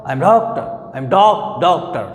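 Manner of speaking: doctor with DOC leaned on, TOR dropped; stress on DOC. Shown as a demonstration. Teacher showing which syllable takes stress, DOC stressed. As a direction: hammer DOC and let TOR fall away. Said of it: "यानी इस पर stress है".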